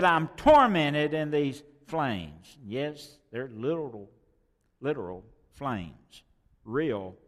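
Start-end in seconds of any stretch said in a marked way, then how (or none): 0.0-2.6 loud, very slow lament; anguished cry. Acted. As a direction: drag each word out in pain. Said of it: "He said".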